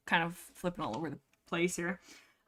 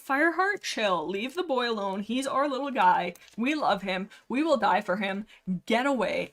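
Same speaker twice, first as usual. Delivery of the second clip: mock protective scolding. Acts out elders defending Cloud Kid.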